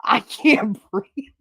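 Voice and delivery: slow, gasped out through laughter; breathless laughing. Retold or imitated. Recalling both friends unable to stop laughing, breathless laughing. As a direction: squeeze the words out while cracking up. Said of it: "we can't stop laughing".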